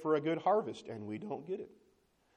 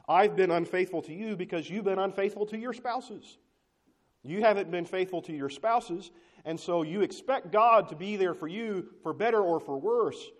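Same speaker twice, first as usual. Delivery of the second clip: loud, higher, heated scolding; angry rebuke; 5 semitones higher, 6 dB louder than usual. Acted. God rebuking unfaithful Israel, heated loud accusing voice. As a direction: let the anger build as you accuse.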